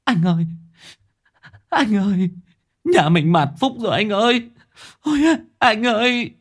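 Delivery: high wailing sobs; grieving wife wailing for her husband; sobbing. A narrator's reading. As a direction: cry out to your husband in grief. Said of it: "thút thít".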